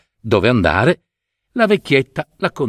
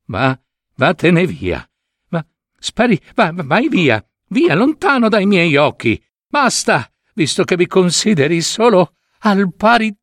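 king banishing his daughter, angry shout; 9 semitones higher than usual. Acted. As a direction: drive her out of your sight. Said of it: "gridò a Maruška il re".

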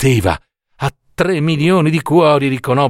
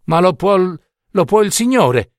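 defiant mother; 5 semitones higher than usual. Acted. Mother defies Death.

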